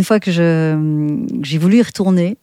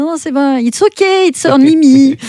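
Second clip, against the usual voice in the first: reassuring a startled stranger; 8 semitones higher, 4 dB louder than usual. Retold or imitated. Calming the girl who screamed on seeing her, high and reassuring. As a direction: soothe her quickly, pitched well up. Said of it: "J'ai dit".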